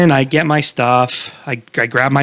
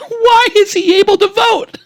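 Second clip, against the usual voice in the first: very high, puzzled lady voice; condescending lady. Retold or imitated. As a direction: wonder aloud, talking down. Voicing the lady's thoughts.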